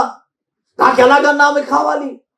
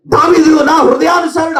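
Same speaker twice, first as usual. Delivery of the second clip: దావీదు నా హృదయానుసారుడు called out louder and higher; say it loudly; 4 semitones higher than usual. Shown as a demonstration. Preacher leading the congregation to say దావీదు నా హృదయానుసారుడు loudly. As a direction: proclaim దావీదు నా హృదయానుసారుడు boldly to the hall. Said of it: "గట్టిగా చెప్పండి ఆ మాట".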